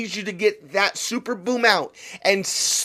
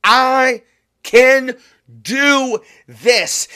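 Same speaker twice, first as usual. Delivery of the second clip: loud declaration; 3 semitones higher, 6 dB louder, much slower than usual. Shown as a demonstration. Speaker models the loud cry he wants from listeners. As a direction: shout it so the doubt breaks. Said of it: "Get that voice out loud and say it".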